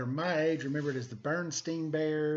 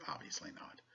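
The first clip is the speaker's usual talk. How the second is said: whispering; 14 dB quieter than usual. Real, not acted. Aside whispered to viewers.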